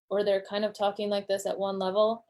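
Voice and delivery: "at one level" kept on one flat pitch, no rise or fall; student droning on one level; monotone. Shown as a demonstration. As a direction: drone it all on one note. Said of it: "monotone at this level".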